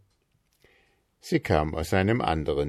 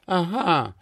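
Mister Marker gloating; 11 semitones higher than usual. A narrator's reading. Mister Marker examines Tommy.

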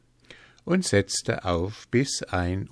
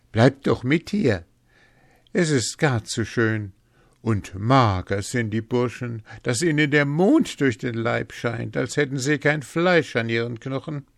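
raised, lively coaxing; eager invitation; 5 semitones higher, 4 dB louder than usual. A narrator's reading. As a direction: talk someone into joining the fun, animatedly. Hans eagerly invites the sexton.

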